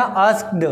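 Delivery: आस्क्ड as one syllable, ending in a k-d cluster; careful pronunciation. Shown as a demonstration. Teacher drawing students' attention to the sound, आस्क्ड pronounced as one syllable. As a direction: say आस्क्ड with no vowel before the final d. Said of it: "vocal कंठ में ध्यान देना".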